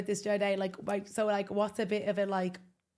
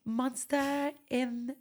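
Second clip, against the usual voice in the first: put-on child asking; 5 semitones higher, much slower than usual. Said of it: "he'd be like".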